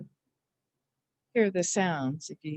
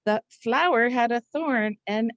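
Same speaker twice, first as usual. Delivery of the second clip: mini story voice; 4 semitones higher than usual. Shown as a demonstration. Teacher acts a memory sentence for spelling. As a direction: act out poking yourself on a thorn. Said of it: "You can say to yourself".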